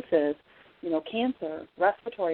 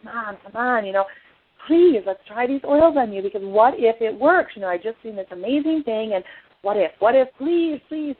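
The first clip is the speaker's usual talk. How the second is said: pleading; 4 semitones higher, 4 dB louder than usual. Retold or imitated. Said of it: "I'm like, so excited".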